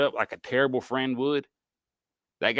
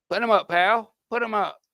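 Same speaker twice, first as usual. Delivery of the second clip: higher mock little boxer taunt; Fighting Irish leprechaun; 8 semitones higher than usual. Imitating the Notre Dame mascot, hammed-up boxer. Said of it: "like the, uh, Notre Dame Fighting Irish guy".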